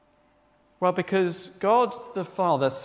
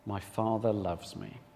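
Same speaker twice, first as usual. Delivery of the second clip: gentle reassurance; 10 semitones lower, 9 dB quieter, slower than usual. Shown as a demonstration. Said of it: "keep reminding ourselves of".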